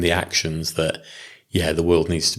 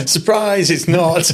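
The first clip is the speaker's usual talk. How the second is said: high, bright mock surprise; spring it like a teasing gotcha; 11 semitones higher, 4 dB louder, slower than usual.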